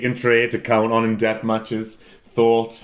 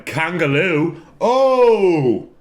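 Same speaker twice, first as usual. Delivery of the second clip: sudden excited idea; 5 semitones higher, 4 dB louder, much slower than usual. Real, not acted. Struck by a gimmick idea.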